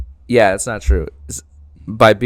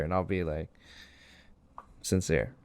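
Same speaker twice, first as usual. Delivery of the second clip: softer, lower sincere voice; 4 semitones lower, 10 dB quieter than usual. Shown as a demonstration. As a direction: drop into mock earnestness. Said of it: "I'm gonna be sincere".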